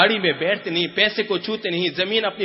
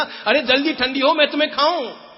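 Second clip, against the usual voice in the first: put-on much higher, louder impatient child; 10 semitones higher, 5 dB louder than usual. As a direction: urge the kheer like an eager boy. Child urging kheer to cool.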